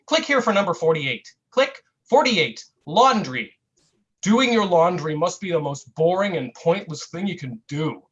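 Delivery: lively mock-clickbait read; satirical article reading. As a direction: perform a breathless-teen listicle with punched emphasis. Reads own satirical internet article.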